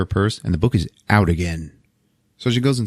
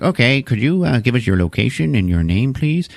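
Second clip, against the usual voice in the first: phone operator; 4 semitones higher than usual. Retold or imitated. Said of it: "the lady on the phone is like".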